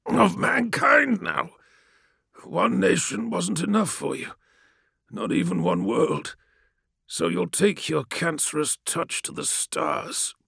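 high, slow shouted contempt; furious prisoner, pitched high; raging captive. A narrator's reading. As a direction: spit your scorn at the conqueror. Captive rages.

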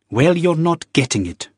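sharp, high retort; snapped. Acted. Wife refusing Jamie, snapping sharply. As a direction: bite the words off. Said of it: "she snapped".

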